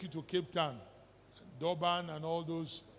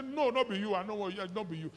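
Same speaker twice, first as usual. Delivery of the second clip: mock believer's refusal; 3 dB louder than usual. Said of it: "You know they talk like this".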